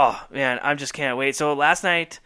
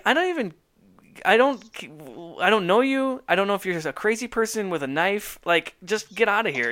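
higher, exasperated rant; annoyed dismissal; 3 semitones higher than usual. Retold or imitated. Imitating Seinfeld waving off an intruder, exasperated. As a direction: wave off a stranger. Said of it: "I love that he's like".

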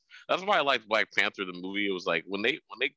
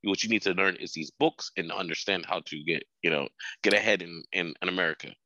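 lightly put-on Filipino parent accent; 2 semitones lower than usual. Parent refusing to speak Tagalog in America, Filipino accent. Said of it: "great accent. Very close".

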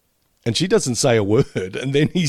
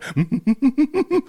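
cartoon cat noise. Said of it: "cartoon cat going".

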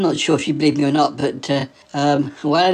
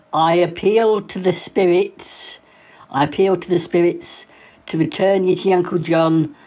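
solemn incantation; slower than usual. Retold or imitated. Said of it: "Uh, she said".

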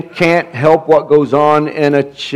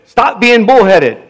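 higher, imitated English accent; 4 semitones higher than usual. Revivalist repeating his rebuke to church leaders, English accent. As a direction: scold in a mock English preacher's accent. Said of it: "in his English accent".

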